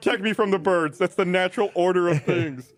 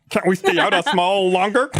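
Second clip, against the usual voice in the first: meek little boar pleading; 4 dB louder than usual. Acted. Plays meek youngest boar.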